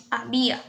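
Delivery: había accented on the i; había, stressed ha-BÍ-a. Shown as a demonstration. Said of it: "debería de estar en la I".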